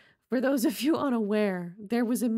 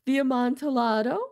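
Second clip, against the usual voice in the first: questioning; 4 semitones higher, 8 dB louder than usual. Acted. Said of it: "I said".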